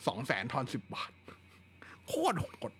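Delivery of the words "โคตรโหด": breathy whisper, pitched up; whispered aside. Real, not acted. Telling viewers the cable price jump, whispered shock. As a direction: hush it like a shocked secret.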